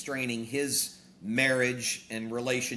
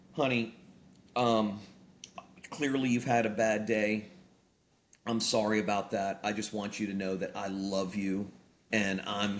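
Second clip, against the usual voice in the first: gentle, lowered voice for the kind wife; tender wife; 4 semitones lower than usual. Retold or imitated. Wife calming her grumpy husband, mildly tender. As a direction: soothe him like a loving wife would. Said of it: "very tenderly says".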